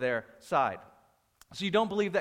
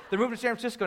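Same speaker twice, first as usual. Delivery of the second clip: higher-pitched imitation of an excited announcer; excited announcement; 7 semitones higher, 4 dB louder, much faster than usual. Pastor introducing church planters to the congregation, excited. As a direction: announce big news excitedly.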